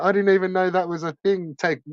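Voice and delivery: a hint of a confused whiner; mock quote. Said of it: "he's like".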